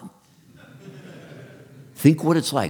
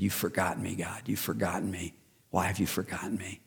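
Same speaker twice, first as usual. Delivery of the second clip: pleading wife; 10 dB quieter than usual. Retold or imitated. Wife begging God in pain.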